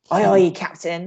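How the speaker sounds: a light, hammed-up pirate accent; a hint of a mock pirate accent. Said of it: "You have to work on that accent".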